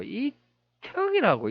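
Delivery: 이척 drawn out, each syllable held; tentative reading. Shown as a demonstration. Presenter unsure how the name reads, slow tentative sounding-out. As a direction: stretch 이척 slowly as if testing it. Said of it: "이렇게 읽어야 되나".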